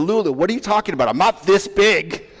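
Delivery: dad dodging his daughter's question with fake surprise; feigned innocence. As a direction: play dumb, hammed-up and quick.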